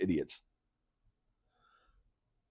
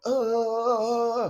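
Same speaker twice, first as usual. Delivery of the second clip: mock groan; 13 semitones higher than usual. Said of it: "it's nothing like just going".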